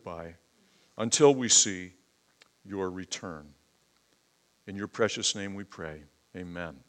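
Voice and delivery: earnest spoken prayer for the congregation. Real, not acted. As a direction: pray aloud, asking for understanding. Pastor leads opening prayer.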